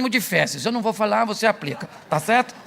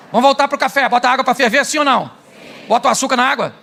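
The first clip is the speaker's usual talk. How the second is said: louder, punchy questions to the crowd; loud quiz; 3 semitones higher, 5 dB louder than usual. Real, not acted. Preacher loudly quizzing the congregation on coffee steps.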